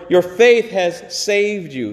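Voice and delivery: "faith" hit and falling; slowed, with "faith" leaned on; stress on faith. Shown as a demonstration. Preacher repeating the healing words, stress on "faith". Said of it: "Your faith has healed you".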